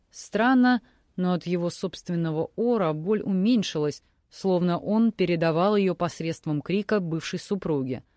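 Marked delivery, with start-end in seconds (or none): none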